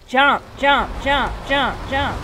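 loud, high, repeated barked command; cranky. Real, not acted. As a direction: fire off each word impatiently. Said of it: "sorry if I sound a little cranky".

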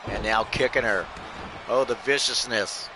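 lively ringside commentary, calling every move; wrestling play-by-play. Acted. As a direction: call the match like a hyped announcer.

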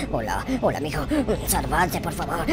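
put-on low, soft old man; old guard voice. Dying guard begging the player to save himself, low and soft.

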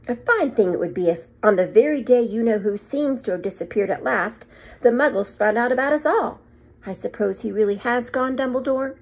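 a stern headmistress, put out; stern witch. Acted. McGonagall voice.

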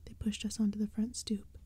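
hushed spooky whisper throughout; whispered storytelling. A narrator's reading. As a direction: breathe the story like a secret. Whispered narration.

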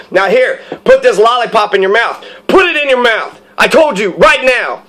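imitated yelling, each command punched and falling; yelling thug. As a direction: bark orders like an impatient tough guy. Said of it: "when he started yelling".

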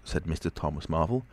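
plain reading voice

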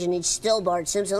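put-on older Bart. Shown as a demonstration. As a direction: Bart nudged down a bit in pitch. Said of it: "take him down into this range".

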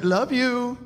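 mother's sweet sign-off, "you" held out; imitated sweet way. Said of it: "She had a certain sweet way".

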